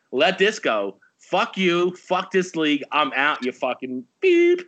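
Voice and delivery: mock furious rant at the commissioner, bleeping himself; half-acted angry rant ending in a high bleep; retold angry outburst. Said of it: "I was so fucking mad today".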